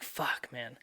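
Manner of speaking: soft, unvoiced-sounding curse under the breath; dejected whisper. Stranded man waiting for his dad, dejected whisper. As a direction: whisper it in retold defeat.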